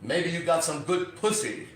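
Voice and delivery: a hint of a slow, knowing drawl; mildly imitated acting coach; teacher's voice. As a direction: lightly voice the coach, slow and sly. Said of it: "He says to me".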